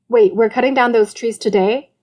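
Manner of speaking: talking through sandwich; mouth full. Acted. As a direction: speak round a mouthful. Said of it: "mouthful of sandwich".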